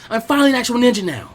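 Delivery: excited shout. A narrator's reading. Naruto cheering alone after passing his test, excited shout. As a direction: burst out cheering at full voice. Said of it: "he jumped into the air excitedly".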